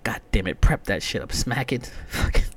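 builds to a loud high shout; coaching himself, ending in a yell; hyped-up pep talk. Retold or imitated. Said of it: "I'm like".

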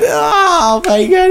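high, slow exasperated groan; mock exasperation. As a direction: drag it out like a fed-up husband. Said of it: "He said".

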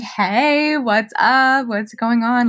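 bright, high, cheerful phone greeting; overly peppy hello. Retold or imitated. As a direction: answer the phone all chipper and upbeat. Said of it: "Like, I'm so peppy".

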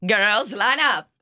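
drawn-out copy of a chaperone voice; slow, mock chaperone; mock chaperone call. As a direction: imitate the put-on call, slowly. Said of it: "I didn't do, uh, that voice".

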